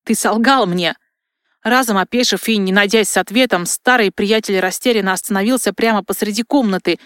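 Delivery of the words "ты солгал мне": rough shout. A narrator's reading. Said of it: "позволив себе грубый окрик".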